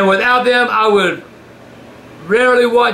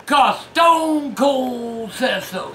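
mock wrestler shout; 5 semitones higher, much slower than usual. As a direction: bellow it like a wrestling promo. Stone Cold shirt taunting shout.

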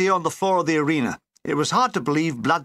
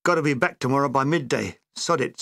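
regretful; 4 semitones lower than usual. Retold or imitated. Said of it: "said Doug regretfully".

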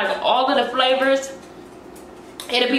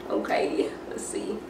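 whispering; 10 dB quieter than usual. Real, not acted. About to take bite.

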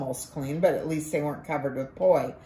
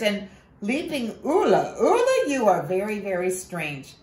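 put-on high, quick boyish wonder; a child who can't believe his ears; boy Ko quizzing the talking taro root, high and excited; amazed little boy; 7 semitones higher than usual. Ko voiced as a child.

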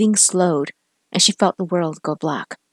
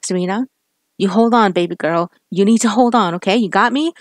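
tearful plea; 2 semitones higher than usual. Acted. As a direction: beg his dying girl to hold on. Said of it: "he cried".

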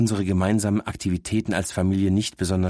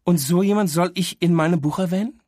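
higher, sniffy dog scorn; contemptuous; 10 semitones higher, 4 dB louder than usual. Acted. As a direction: look down your nose at him. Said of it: "hebt verächtlich eine Lefze". (verächtlich, leicht von oben herab)

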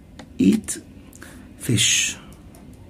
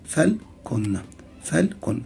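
"فلكن" in two separate syllables; split into syllables; 4 dB quieter, slower than usual. Shown as a demonstration. Teacher showing what a syllable is, split into syllables. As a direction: break "فلكن" into فل and كن. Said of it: "ده مقطع وكن ده مقطع".

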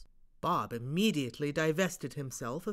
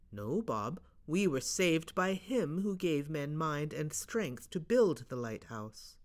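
sincere. Acted. Steve's solemn reply.

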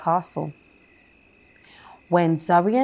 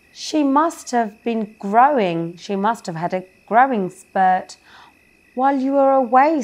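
higher, hurried nervous excuse; nervous child excuse; 4 semitones higher, 3 dB louder than usual. Acted. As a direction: cover up quickly and nervously. Zoe nervously covers for Marcy.

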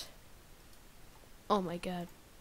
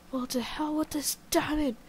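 playful angry outburst, higher; mock outrage; 5 semitones higher, 3 dB louder than usual. Real, not acted. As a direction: rant at the game in fake fury. Angry at the diamond drop.

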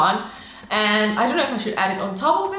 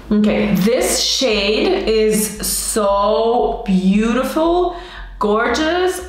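drawn-out gushing; 4 dB louder, much slower than usual. Shown as a demonstration. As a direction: drag each word out in awe. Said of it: "camera's not focusing".

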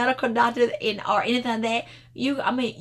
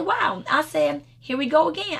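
amazed; 6 semitones higher than usual. Retold or imitated. Surprise at the same Bible verse.

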